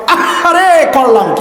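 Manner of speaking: a hammed-up cry of regret on আহারে, then a falling question; overdone sigh of remorse; mock regret. Shown as a demonstration. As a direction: lament as if slapping the forehead. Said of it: "কপালে একটা জোরে বাড়ি মারান আর বলেন".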